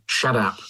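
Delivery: "Shut up" said as "shaddup"; "Shut up" slurred into one word, shaddap; spelt-out slangy pronunciation. Shown as a demonstration. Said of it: "S H A double D U P".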